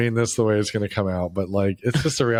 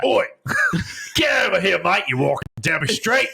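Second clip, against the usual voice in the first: higher, hammed-up Cockney menace; rough British thug accent; 7 semitones higher than usual. Mocking a rough British accent for his friend, higher and hammed-up. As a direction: leer it like a London street tough. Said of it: "their British accent's the one".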